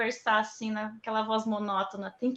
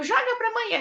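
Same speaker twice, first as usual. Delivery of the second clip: coaxing her daughter to throw, higher; playful high urge; 11 semitones higher, 5 dB louder than usual. Retold or imitated. Mother urging her daughter to throw the ball, playful and higher. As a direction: sing out the coaxing call. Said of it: "eu digo".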